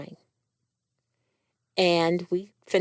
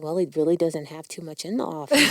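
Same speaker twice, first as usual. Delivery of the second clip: quick, amused line with a laugh through it; laughing quip; 2 semitones lower, faster than usual. Real, not acted. Patient joking to the hosts about the doctor's office, laughing. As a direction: toss it off while laughing.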